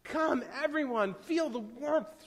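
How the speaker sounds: high, calling invitation; lilting, drawn-out beckoning; eager invitation. A narrator's reading. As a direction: call everyone over, pitched well up. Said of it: "she invited".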